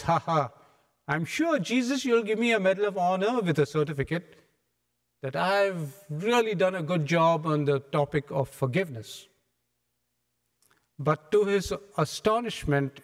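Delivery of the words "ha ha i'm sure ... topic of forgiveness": lightly voiced smug Peter, a bit faster; pleased with himself, fishing for praise. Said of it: "So very smugly he says".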